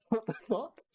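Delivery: high, slow, laughing disbelief; drawn out in laughing shock; stunned disbelief. Retold or imitated. Reacting to magician intro.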